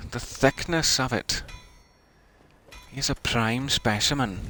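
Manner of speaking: put-on Scottish accent. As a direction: keep up the borrowed Scots accent. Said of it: "for me to have gone Scottish".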